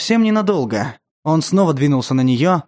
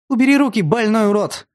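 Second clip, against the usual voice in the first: put-on desperate girl's scream; screaming at him; 7 semitones higher than usual. A narrator's reading. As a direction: yell in fury and fear.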